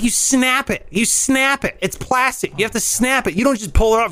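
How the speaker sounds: retold exasperated instructions; acted exasperation. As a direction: coach a clueless man, losing patience. Exasperated instructions to clumsy neighbor, retold.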